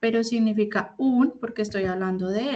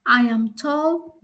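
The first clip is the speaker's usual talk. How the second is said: slow English example; 3 semitones higher, 4 dB louder, slower than usual. Shown as a demonstration. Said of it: "otros ejemplos".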